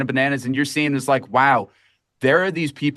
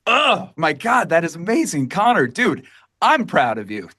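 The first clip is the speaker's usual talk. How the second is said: moved; 3 semitones higher than usual. Real, not acted. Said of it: "I'm getting emotional just listening to you".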